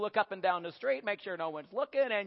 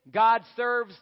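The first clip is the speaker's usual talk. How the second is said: self-centred cat; 2 semitones higher, 4 dB louder, slower than usual. Acted. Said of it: "Cats think".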